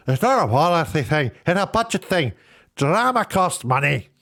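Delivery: a light imitation of the writer's reply, the last words slowed; Neil Gaiman impression. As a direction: lightly mimic the author, then draw out the last line. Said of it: "That's exactly how he sounds".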